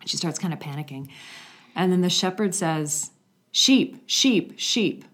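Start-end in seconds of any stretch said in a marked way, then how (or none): 3.5-5.1 strong clear call. Retold or imitated. Shepherdess calling her sheep across the hillside. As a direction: call out high and loud. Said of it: "just with a strong, clear voice".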